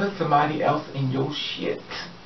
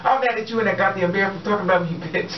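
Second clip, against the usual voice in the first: mock angry rant; 5 semitones higher than usual. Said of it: "She'll be like".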